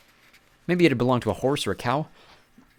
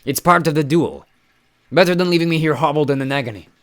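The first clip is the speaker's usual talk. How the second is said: croaking giant; 7 semitones higher, 7 dB louder than usual. Acted. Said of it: "he croaked".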